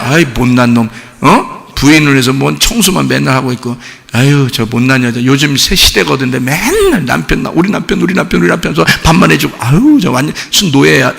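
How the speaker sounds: low, muttered mock disapproval; 흉보는 제삼자. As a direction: grumble like a scornful onlooker. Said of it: "딴 사람이 보면요". (남들이 혀 차듯 낮게 흉보는 말투)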